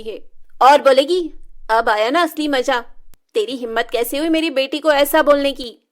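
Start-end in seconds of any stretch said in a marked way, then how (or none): 1.7-5.8 loud, scolding mother's voice; angry stepmother. Acted. Stepmother scolding Shilpa after slapping her, loud and angry. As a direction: snap at the girl after a slap.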